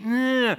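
dismissive "nyah" noise; mock apathetic groan. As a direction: groan like a listless churchgoer. Mimicking apathetic church on Zoom.

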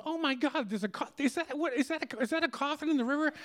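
high, stunned and stammering disbelief; a passer-by who can't believe her eyes; startled gasp. Retold or imitated. Woman spots coffin from bridge.

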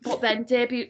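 burp slipping out mid-sentence. Real, not acted. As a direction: talk through a small burp. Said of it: "I'm burping".

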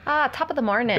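stock stage-Irish greeting; hammy Irish lilt; put-on Irish accent. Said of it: "rolling green hills of Ireland".

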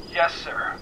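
soft, thin phone voice; voice over a device. A narrator's reading. Annie takes McKenna's orders, thin phone voice. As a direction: acknowledge on a filtered line.

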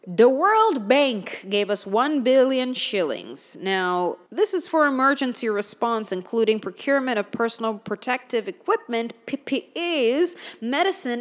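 mock newsreader delivery, measured and formal; news anchor voice. Vlogger slipping into a TV news anchor read of the budget. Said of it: "I don't know why I'm talking like this".

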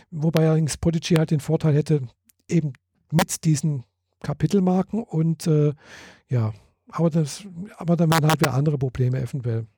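overdriven, crackling mic; too close to the mic, clipping; clipping distorted mic. Real, not acted. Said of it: "Du übersteuerst jetzt laufend und du knirschst bei mir in der Leitung".

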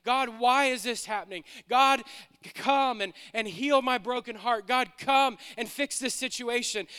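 a touch of pleading in a preacher's voice; crying out to God. Acted. Believer asking God to heal a broken heart, mild preached plea. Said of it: "begins to cry out to the Lord".

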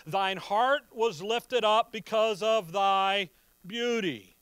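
measured, solemn scripture read. Acted. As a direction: read the verses like pronouncing judgment. Reading scripture aloud.

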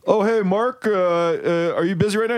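hint of a chirpy shop lady calling out; lightly voiced lady coworker. Voicing a female coworker.

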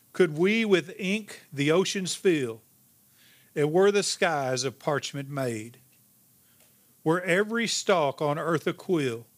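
slow, measured recital of a hymn; solemn hymn reading. Shown as a demonstration. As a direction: read the verse reverently and unhurried. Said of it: "I'm gonna read you a hymn".

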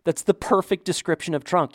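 excited recognition, retold; excited realization. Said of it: "And I'm like".

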